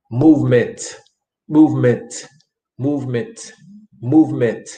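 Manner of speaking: "Movement" repeated evenly, each ending in a released t; drum-like final t. Shown as a demonstration. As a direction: drill "Movement" with a percussive last t. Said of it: "lleva un sonido como un tambor".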